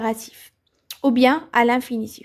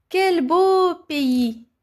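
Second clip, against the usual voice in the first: slow, drawn-out, higher admiring exclamation; 4 semitones higher, much slower than usual. Shown as a demonstration. Teacher reads a line praising Morocco, slow and admiring. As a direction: savour each word of praise, slowly. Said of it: "est impressionné par la beauté".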